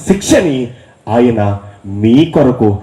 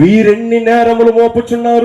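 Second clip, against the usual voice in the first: scripture reading lead; 10 semitones higher than usual. Shown as a demonstration. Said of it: "వచనం చదవండి అమ్మా".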